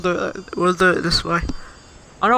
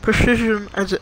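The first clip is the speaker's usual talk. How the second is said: retainer lisp; words slurred by a retainer; wearing a retainer; 4 semitones higher than usual. Real, not acted. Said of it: "I can't say it when these".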